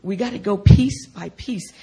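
tender, patient reassurance; kindly, unhurried comfort; gentle and loving. Retold or imitated. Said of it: "just so gentle and loving".

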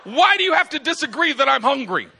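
laughing mock outrage; exasperated. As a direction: act fed up with being contradicted. Acted quarrel with disagreer.

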